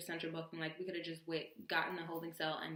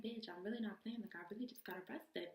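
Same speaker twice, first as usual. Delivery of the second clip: softer, serious retold plea; 2 semitones higher, 8 dB quieter than usual. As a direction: drop the volume and mean it. Insisting to disbelieving friend.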